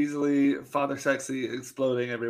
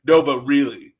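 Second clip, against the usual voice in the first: mock insistence; 8 dB louder than usual. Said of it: "And he's like".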